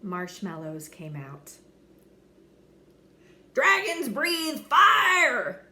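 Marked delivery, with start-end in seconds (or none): 3.5-5.7 loud, higher, slow coach's yell. Acted. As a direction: drill it into the class. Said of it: "yelled the coach".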